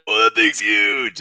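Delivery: loud, slow quote of his astonishment; imitated amazed reaction. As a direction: retell his reaction big and drawn out. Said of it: "And he's like".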